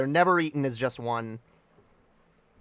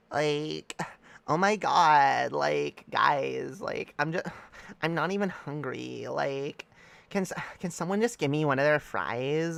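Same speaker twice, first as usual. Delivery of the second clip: put-on a light valley girl whine, softer, slow on the ask; 3 dB quieter than usual. Mock valley girl asking her friends for one fry. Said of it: "Southern Californian valley girl".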